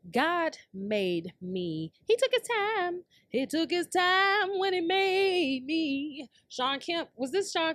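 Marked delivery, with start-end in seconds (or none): 0.1-6.3 mock diva boast. Boasting about own looks.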